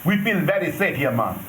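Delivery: light mock Jamaican accent; fake Jamaican accent. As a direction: tourist trying on a Jamaican accent. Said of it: "You like my fake Jamaican accent?".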